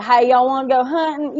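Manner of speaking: mock Southern hick holler; pure hick accent. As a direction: put on a backwoods Southern accent. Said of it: "pure hick".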